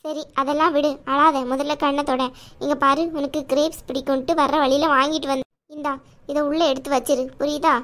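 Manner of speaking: caring aunt voice. Acted. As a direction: play the protective chithi, chiding but kind.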